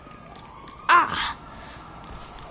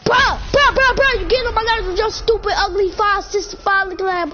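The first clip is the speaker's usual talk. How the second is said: exasperated outburst. Real, not acted. Annoyed at teammate mid-game.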